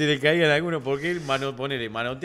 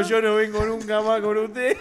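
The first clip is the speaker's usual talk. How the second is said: higher voice, laughing mock complaint; Negro Suárez, fed up; 5 semitones higher than usual. Friend refusing to return with Toscano, laughing mock complaint. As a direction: quote a weary refusal through laughter. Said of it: "El Negro Suárez dijo".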